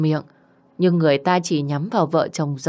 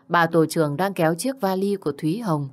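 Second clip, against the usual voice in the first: ordinary delivery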